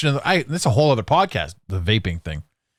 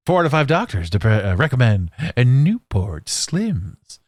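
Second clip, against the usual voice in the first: chipper 1950s ad. Pretend. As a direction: pitch it like an old cigarette commercial. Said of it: "And remember".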